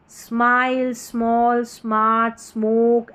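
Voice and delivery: "स्माइल, स्मॉल, स्मार्ट, स्मोक" slowly, blending S into a nasal M; drawn-out SM word drill: "स्माइल, स्मॉल, स्मार्ट, स्मोक"; nose-and-lips SM blend. Shown as a demonstration. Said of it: "नोज और lips blending sound".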